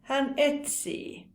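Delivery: "etsii" slowly, with the final ii drawn out; long I. Shown as a demonstration. Teacher showing learners a verb form, long final I in "etsii". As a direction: hold the ii at the end of "etsii". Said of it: "Pitkä I".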